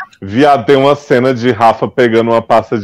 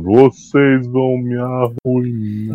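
snack bar owner; 4 dB quieter, much slower than usual. Pretend. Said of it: "Só faltou o cara da lanchonete falando".

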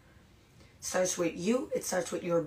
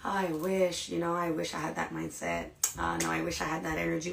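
softer, longing sigh of a wish; mock wistful, softer; 3 semitones lower, 6 dB quieter than usual. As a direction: wish for it quietly. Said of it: "we're like".

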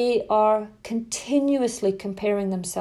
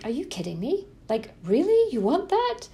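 rising, disbelieving mock outrage; the wrong way to start the chat with a teen; incredulous mock; 5 semitones higher than usual. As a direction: act shocked at the son's choice. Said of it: "I was like".

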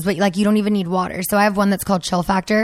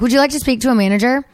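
chirpy agent; 4 semitones higher, faster than usual. Retold or imitated. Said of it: "they're like".

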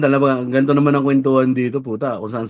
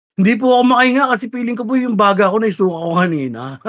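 sick patient; 8 semitones higher than usual. Pretend. Acting sick at the hospital.

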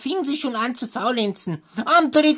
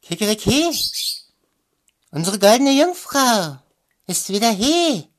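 rooster crowing. Acted. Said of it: "saß der Hahn auf dem Brunnen und rief".

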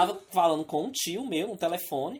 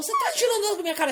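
mock thug; 13 semitones higher than usual. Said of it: "Aí ele falou".

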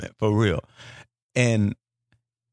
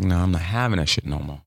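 dark inner resolve; 5 semitones lower than usual. Retold or imitated. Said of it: "I'm like".

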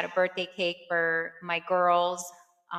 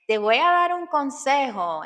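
higher, louder imitation of mom in Spanish; mom giving advice; 7 semitones higher, 6 dB louder than usual. Mom offering grown daughter advice, imitated insistence. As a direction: pitch it up like an insistent mother.

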